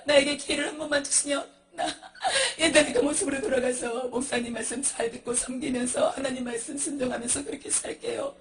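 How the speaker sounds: acted sobbing plea; tearful pleading. Soul begging God for another chance.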